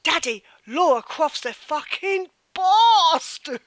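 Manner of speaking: put-on child proudly swearing down the phone; little boy voice. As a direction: deliver it like an excited four-year-old. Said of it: "And he went".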